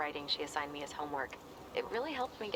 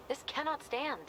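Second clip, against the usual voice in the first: mock outrage; 10 semitones higher than usual. Joking outrage about apartment rules.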